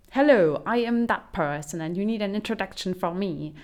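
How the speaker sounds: mock stiff introduction. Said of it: "And it's just like".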